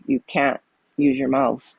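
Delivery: usual speaking voice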